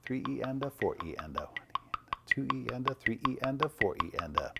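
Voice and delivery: steady unaccented "Three E and a", dropping on "four"; even sixteenth-note count. Shown as a demonstration. Drum teacher showing what sixteenths should sound like, evenly counted. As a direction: count "E and a" evenly after each number. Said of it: "hear what it should sound like".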